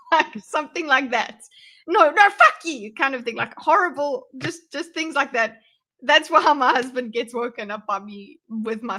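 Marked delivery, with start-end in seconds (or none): 1.9-2.9 loud re-enacted outburst, pitched up; mock furious yell; sleep-talk swearing. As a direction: blurt it angrily as if asleep.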